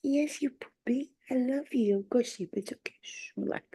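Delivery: soft whispered lullaby to a dog; whispering the dog back to sleep; soothing whisper. Real, not acted. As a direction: hush the puppy gently to sleep.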